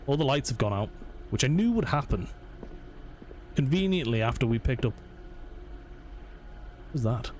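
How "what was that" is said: hushed, slow, breathless whisper; startled whisper. Real, not acted. Player hears a noise in the dark, whispers in alarm. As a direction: freeze and whisper at the sound.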